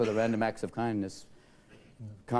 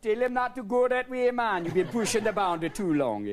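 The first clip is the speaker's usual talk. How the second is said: excited onlookers; 8 semitones higher, 4 dB louder than usual. Acted. Brits voiced commenting.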